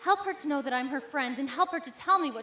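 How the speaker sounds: hushed personal prayer to God. Acted.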